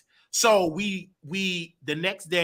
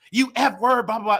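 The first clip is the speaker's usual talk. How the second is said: mildly raised mock insult; retold mad mother; 6 semitones higher than usual. Mother calling him names, mildly mad imitation. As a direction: lightly imitate an angry mother's name-calling. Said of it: "So she was mad".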